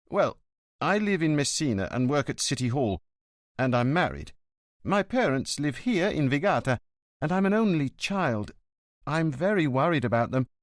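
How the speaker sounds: a worried son pleading with the inspector; lightly voiced nervous young man.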